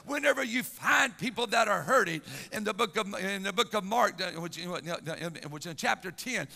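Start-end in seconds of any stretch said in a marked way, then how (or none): 0.0-2.2 forceful, driving church sermon delivery; impassioned preaching. Real, not acted. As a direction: preach it with mounting urgency to the congregation.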